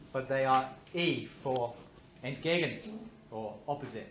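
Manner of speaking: light German accent on entgegen. Shown as a demonstration. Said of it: "Love my German accent".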